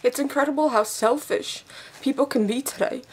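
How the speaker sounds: speaking while crying. Real, not acted. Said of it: "The waterworks start".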